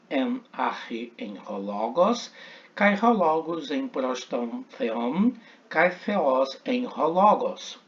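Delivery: slow, careful model reading of the Greek line. Shown as a demonstration. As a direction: read the Greek as a model for the class. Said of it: "procure pronunciar e observar".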